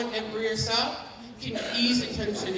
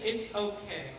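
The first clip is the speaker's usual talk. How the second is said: calm reassurance; 5 dB quieter than usual. Shown as a demonstration. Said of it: "You approach them calmly".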